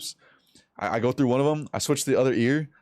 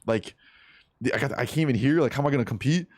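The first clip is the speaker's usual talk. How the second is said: hurried, mildly panicked retelling; fast, fretting mock panic; retold freak-out; faster than usual. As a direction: rush through the worries as if freaking out. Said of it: "I'm, like, freaking out".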